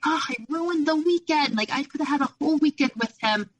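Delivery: high, fast, frantic self-reproach; upset self-blame. Retold or imitated. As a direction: rush it out, kicking yourself. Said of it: "So I was so mad".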